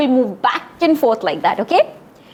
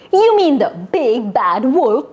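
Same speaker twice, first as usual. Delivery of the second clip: snooty. Shown as a demonstration. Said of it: "Let's try it".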